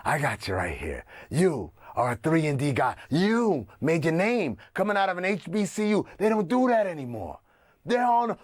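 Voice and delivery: Hollywood guy. Acted. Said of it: "but we also got the Hollywood guy".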